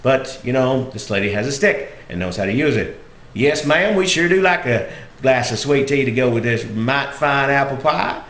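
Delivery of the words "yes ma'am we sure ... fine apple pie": Southern dialect. Retold or imitated. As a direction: accept courteously in thick Southern dialect. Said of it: "I was using that dialect".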